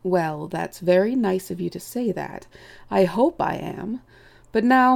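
lightly voiced elderly chief, reasoning indulgently; a touch of bumbling, avuncular authority; courteous, dismissive old chief. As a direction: talk them out of it with genial condescension.

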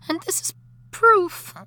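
fervent declaration. Acted. Dead wife passionately declaring love to husband.

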